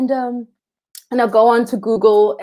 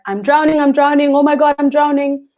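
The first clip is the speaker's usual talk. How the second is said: mock panic; 5 semitones higher, 4 dB louder than usual. Imagined panic in water.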